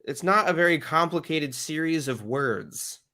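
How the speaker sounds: fed up with being told the obvious; exasperated retort. Acted. Host answers Tony on the recording, exasperated.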